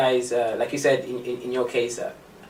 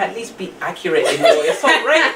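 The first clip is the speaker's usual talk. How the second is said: laughing; 4 semitones higher, 3 dB louder than usual. Retold or imitated. Retold laughing comeback to insult.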